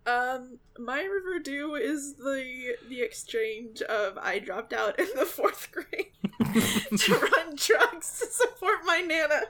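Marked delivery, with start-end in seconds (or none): 2.9-9.4 laughing while telling it; words bubbling with laughter. Real, not acted. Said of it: "I cannot sit through that scene without laughing".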